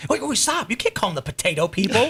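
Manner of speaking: high, startled stop-stop; hammed-up protest at an offensive name; mock objection. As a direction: jump in to halt the joke in alarm. Tim's own objection in the bit.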